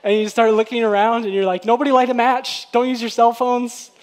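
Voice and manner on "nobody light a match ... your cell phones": urgent, raised-voice warnings easing off; mock freak-out. Preacher playing someone who smells gas, mock freak-out. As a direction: warn everyone in playful panic. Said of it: "start to freak out".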